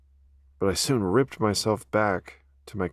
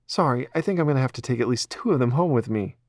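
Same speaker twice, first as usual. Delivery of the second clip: Ella's voice; 5 semitones higher, 3 dB louder, faster than usual. Acted. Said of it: "she said".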